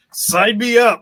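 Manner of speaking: loud, high, gleeful mock eagerness; mock eager. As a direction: grab the offer like a greedy fan. Voicing actor eager for role.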